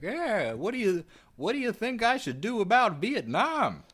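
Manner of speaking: high, put-on Boston JFK voice; Boston accent. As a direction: ham up a Kennedy Boston accent. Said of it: "Why is that your Boston accent?".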